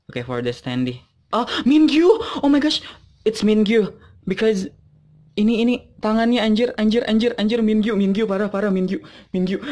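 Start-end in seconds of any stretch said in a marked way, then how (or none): 1.3-9.6 loud, high fan outburst; breaking into real excitement, raised pitch and volume; excited disbelief. Real, not acted. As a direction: blurt it out in thrilled shock. Fan discovers a favourite pull.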